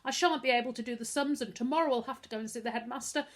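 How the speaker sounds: high, rising to a wail; sobbing boy giving up hope. A narrator's reading. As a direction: break down at the end. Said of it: "With a loud wail".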